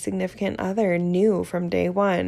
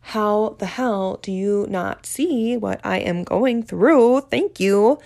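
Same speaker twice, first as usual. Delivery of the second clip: exasperated outburst; 4 dB louder, slower than usual. Retold or imitated. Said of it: "and be like".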